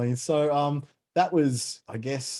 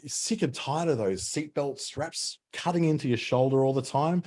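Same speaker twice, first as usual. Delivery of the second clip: raised-pitch salesy pitch; infomercial voice; 5 semitones higher than usual. Pretend. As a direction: sell it like a cheesy TV ad. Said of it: "we sound like an infomercial".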